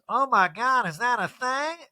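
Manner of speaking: high mock astonishment; astonished Erica. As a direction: imitate someone stunned, pitch lifted throughout. Acts out Erica's astonished reaction.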